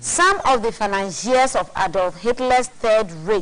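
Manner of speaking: measured read from a printed text; reading aloud. Real, not acted. Co-host reads a conspiracy book to his partner, read aloud. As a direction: read out a weighty passage deliberately.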